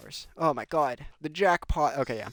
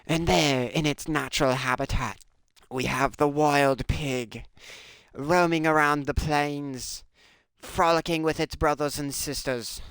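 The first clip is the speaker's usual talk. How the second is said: David Attenborough voice; 2 semitones higher than usual. Pretend. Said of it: "I'm talking like David Attenborough".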